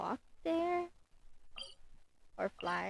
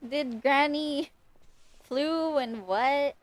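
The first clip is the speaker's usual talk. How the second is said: slow, loud, higher-pitched questioning; baffled disbelief; 6 semitones higher, 4 dB louder, much slower than usual. Real, not acted. Streamer questioning what the granny just said, baffled. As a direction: puzzle it out aloud, leaping high on the last "what".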